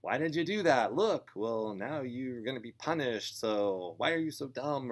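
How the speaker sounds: loud, high-pitched telling-off; scolding parent. Acted. Parent responding to a broken rule, scolding loudly. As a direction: lay into the child, exasperated and loud. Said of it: "we wanna respond with not".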